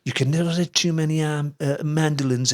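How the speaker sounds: put-on Liverpool accent, slightly hesitant; a famous musician. Retelling the car boot quote, Liverpool accent. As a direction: repeat the quote in a Scouse lilt, stumbling midway. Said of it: "once said in his Liverpool accent".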